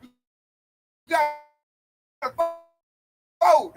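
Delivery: mocking get-out-the-vote preacher; mock voter urging. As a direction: nag them to vote like a campaigner. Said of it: "That's how I hear it".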